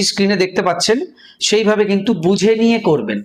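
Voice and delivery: ordinary talk, nothing marked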